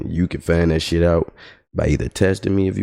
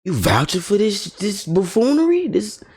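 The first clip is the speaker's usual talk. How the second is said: exasperated disbelief. Retold or imitated. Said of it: "'cause I'm like".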